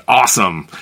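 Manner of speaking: imitating a Briton mocking Americans with a Southern-accent "Awesome"; mock cowboy Southern twang. British friend mocking exuberant Americans, light Southern twang. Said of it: "They put kind of like a cowboy Southern accent twang".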